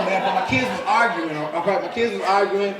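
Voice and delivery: ordinary delivery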